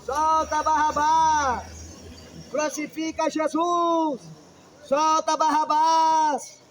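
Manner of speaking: slow, drawn-out crowd chant; multidão gritando. Retold or imitated. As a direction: chant it like the mob demanding. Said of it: "E o que o povo pediu?". (a multidão clamando devagar)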